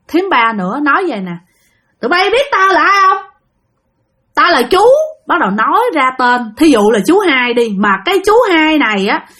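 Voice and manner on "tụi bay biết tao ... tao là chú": raised, imperious ghost voice; possessed aunt. Retold or imitated. Spirit reveals himself to the family, imperious possessed voice. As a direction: announce yourself as the spirit in her body. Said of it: "dông này lại tiếp tục nhập".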